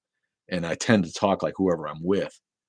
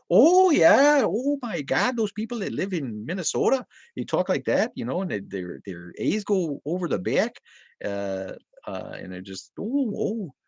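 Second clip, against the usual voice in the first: high, swooping Minnesota caricature; Minnesota accent; 10 semitones higher, slower than usual. Shown as a demonstration. Accent fan demonstrating on request, exaggerated Minnesota accent. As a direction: ham up a sing-song Minnesota accent. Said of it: "can you do the Minnesota accent".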